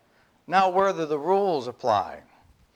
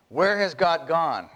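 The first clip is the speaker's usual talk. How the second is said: mild cry; 3 semitones higher than usual. Acted. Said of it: "he cried".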